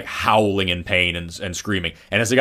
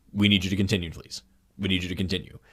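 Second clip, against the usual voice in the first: soft, even pleading with no force; the experimenter's quiet calm; calm, quiet request; 3 semitones lower, 7 dB quieter, faster than usual. Retold or imitated. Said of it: "this person saying".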